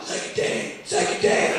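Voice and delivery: tiny whispered plea; hushed mock-frightened whisper; terrified whisper. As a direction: imitate a scared clerk, all breath. Terrified new clerk held at gunpoint.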